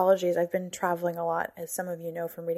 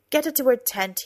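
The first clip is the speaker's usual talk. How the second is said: commanding; 5 semitones higher, 7 dB louder than usual. Acted. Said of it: "he said, snapping his fingers".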